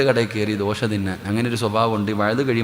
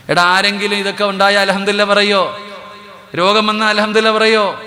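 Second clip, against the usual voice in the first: high, loud sermon challenge; preacher challenging the congregation, loud and high; fiery preaching; 8 semitones higher, 4 dB louder than usual. Real, not acted. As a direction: drive the question home to the crowd. Preaching at full force.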